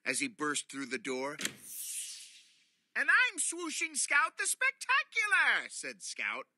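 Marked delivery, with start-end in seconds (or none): 3.0-5.7 high, loud grand hero voice; superhero announcement. Acted. Buddy announcing his superhero name, grandly.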